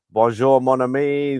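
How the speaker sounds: put-on greeting in an amateur French accent; lightly put-on French accent; attempted French accent. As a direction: have a clumsy go at French. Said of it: "why am I doing accents".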